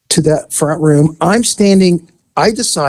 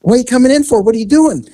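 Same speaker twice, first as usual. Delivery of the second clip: higher-pitched imitation of a questioning child; nosy little girl; 7 semitones higher, faster than usual. Little girl questions the officer coming in, suspicious. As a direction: challenge him like a suspicious kid, pitched up.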